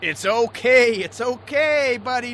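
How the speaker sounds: slow, tender comfort; reassuring. Acted. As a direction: soothe the crying buddy. Skipper comforts crying deckhand.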